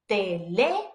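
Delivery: "Teléfono" with a long, rising, stressed LÉ; hammered accent. Shown as a demonstration. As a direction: lean hard on LÉ in Teléfono. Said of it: "like, hammering that letter".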